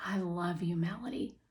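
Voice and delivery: whispered, tender; dad whispers to his daughter; soft whisper. Acted. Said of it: "he says softly".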